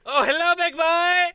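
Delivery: sultry, high, breathy-free tease; femme fatale. Pretend. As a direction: purr a flirty hello to a friend. Seductive greeting on phone call.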